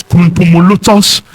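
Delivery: tongue-twisting gibberish as fake big grammar; mock medical jargon. Pastor mocking online diagnoses of back pain, mock jargon. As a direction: rattle off nonsense syllables like a pompous diagnosis. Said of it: "They now speak one grammar".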